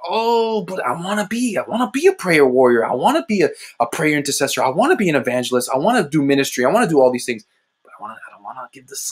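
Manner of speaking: eager, pleading with swooping pitch; mock pleading, pitch leaping up and dipping; protesting plea. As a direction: reenact begging to keep it all. Acts out pleading with God.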